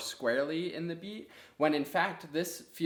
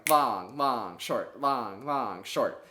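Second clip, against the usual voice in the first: "long, long, short" said unevenly; wrong uneven rhythm; 3 dB louder, much slower than usual. Shown as a demonstration. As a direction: show the lopsided rhythm. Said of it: "that's not the right rhythm".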